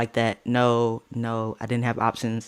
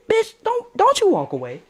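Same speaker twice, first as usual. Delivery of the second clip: retold angry outburst. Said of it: "I said".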